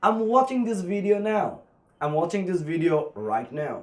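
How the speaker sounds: slow, careful example sentence for learners; teacher reading an example slowly; slow model sentence. Shown as a demonstration. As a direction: spell the sentence out slowly for students. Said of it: "তাহলে আমরা কি বলবো?".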